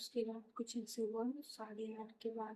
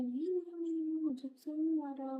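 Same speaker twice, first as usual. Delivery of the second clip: quick, higher and louder no no no; insistent denial; 6 semitones higher, 6 dB louder than usual. Retold or imitated. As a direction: deny it fast, pushing the words out. Patient hastily denies being hit. (ऊँची आवाज़ में जल्दी-जल्दी इनकार)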